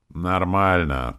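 slow reluctant grumble; grumbling. A narrator's reading. Demon grudgingly answering about money, slow grumble. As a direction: drawl it out grudgingly. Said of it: "проворчала Настя".

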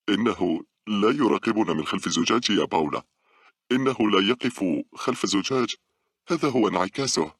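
high, agitated near-hysterical delivery; hysterical, between laughs. A narrator's reading. Girl explains to her friend, mildly hysterical. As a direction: push it out with mounting hysteria. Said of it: "الضحك بهستيريا وهي تقول من بين".

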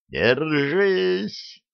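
high, urgent call; warning yell. A narrator's reading. Narrator to the riders as the vehicle lurches, warning yell. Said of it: "только успел проорать я".

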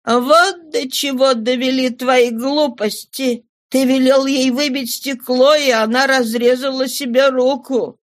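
high, indignant reproach; reproachful exclaiming. Acted. Mother blames husband for daughter's cut hand, high reproachful outcry. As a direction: blame him, pitch held high. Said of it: "воскликнула мать".

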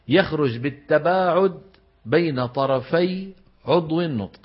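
very slow, measured phrases with pauses; slow dictation. Shown as a demonstration. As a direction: dictate the rule piece by piece, stretching key words. Teacher dictates an important rule. (إملاء القاعدة ببطء وتأنٍّ)

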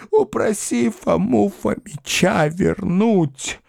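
put-on very high, pleading old woman's voice; shrill begging old woman. A narrator's reading. Old mother begging the governess, high wail. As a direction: beg frantically, high and wailing. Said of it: "завизжала она".

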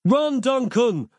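high slow desperate yell; cried. A narrator's reading. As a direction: stretch out the warning. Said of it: "cried Nick".

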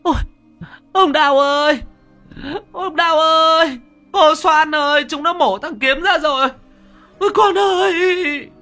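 very high, loud wail of horror; shrieking. A narrator's reading. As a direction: scream out for help, frantic. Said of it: "bà Sử rú lên".

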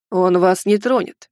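slow, assured declaration; confident. Acted. Savanshi reassuring the frightened heroine, confidently. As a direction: state it slowly, with certainty. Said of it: "уверенно объявил Саванши".

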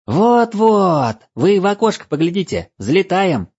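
high, loud excited elf; an elf exclaiming the liftoff; christmas elf. Acted. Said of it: "воскликнул эльф".

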